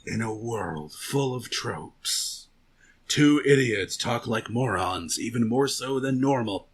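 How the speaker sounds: low, soft, slow trailer announcer; movie trailer voice. Acted. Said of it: "his cool announcer voice".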